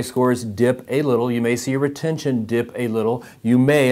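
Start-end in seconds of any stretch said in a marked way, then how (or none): 3.4-3.9 "may" leaned on firmly and set apart; stress on MAY. Real, not acted. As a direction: lean on the word "may", then pause. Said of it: "I want to stress the word may".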